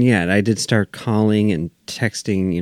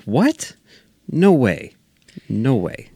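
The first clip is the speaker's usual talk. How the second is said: surprised; 6 semitones higher, slower than usual. Retold or imitated. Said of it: "it was just like".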